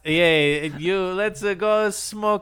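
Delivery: slow, high mushy cool-guy voice; marbles in mouth. Retold or imitated. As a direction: drag it out, mouth full of marbles. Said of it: "marbles in his mouth".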